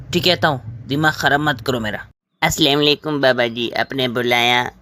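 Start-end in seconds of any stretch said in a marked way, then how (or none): 0.1-2.0 fast, annoyed mutter of surrender; irritated giving in. Acted. Brother to sister, finally agreeing, fast and irritated. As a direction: rattle it off to end the nagging.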